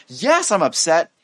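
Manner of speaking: mock-upset, slow emphatic comeback; upset retort. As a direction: admit it with acted exasperation. Acted upset reply to observation.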